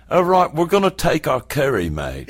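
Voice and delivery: lightly imitated English accent, joking; a playful hint of an English accent; mock English accent. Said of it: "I'm gonna do her accent".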